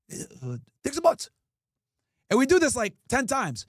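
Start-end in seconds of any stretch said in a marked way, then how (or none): 0.1-1.3 slow, drawn-out sleazy caller; pervy voice. Retold or imitated. Prankster repeats the fake title slowly to the clerk, pervy. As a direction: stretch the title out creepily. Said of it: "in a pervy voice".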